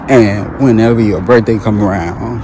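getting it off her chest; venting. Real, not acted. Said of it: "I have to get this off my chest".

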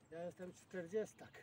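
ordinary talk, nothing marked

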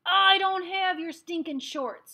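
very high, loud, slow scream; a pinned-down boy screaming back; furious scream. A narrator's reading. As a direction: scream it with everything you've got. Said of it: "screamed Ami".

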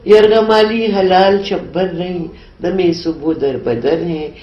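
measured, solemn Urdu recitation; poem recital. Acted. Poet reciting her nazm to the interviewer, solemn recital. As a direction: recite each line like a verse being read aloud. Poem resumes after aside.

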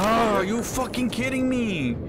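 exasperated outburst. Real, not acted. Killed again, frustrated gamer.

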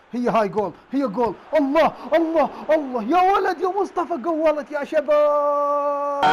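loud, high, stretched goal cheer; goal celebration. Real, not acted. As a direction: celebrate his own goal. He scores his first goal. (احتفال صاخب بالهدف)

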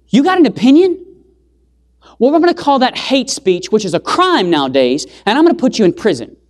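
mocking authority.

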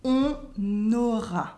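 "On aura" in two parts, N sounded before "aura"; French liaison. Shown as a demonstration. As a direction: demonstrate "On ... naura" piece by piece. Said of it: "There's a liaison between the N".

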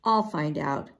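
low, resolved; summoning courage. A narrator's reading. Willa volunteers to investigate, bravely. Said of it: "gathered up all of her courage".

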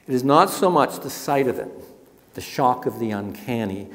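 measured, dramatic book reading; reading aloud. Acted. Author reads his anatomical museum passage, ominous.

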